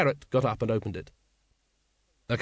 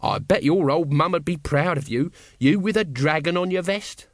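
conversational; 6 semitones higher, 5 dB louder than usual. A narrator's reading. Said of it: "said Nobby conversationally".

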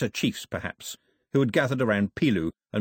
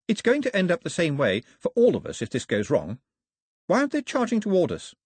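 put-on slightly raised, questioning girl character; a hint of an anxious ghost girl; lightly voiced ghost girl; 8 semitones higher than usual. Ghost girl questions Mao about the coming battle, lightly voiced.

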